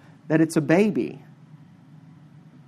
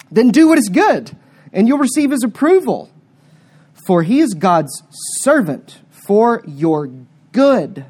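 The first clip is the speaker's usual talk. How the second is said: preached scripture reading; 3 dB louder than usual. Acted. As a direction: proclaim the warning like a preacher at full force. Reads Romans thirteen aloud.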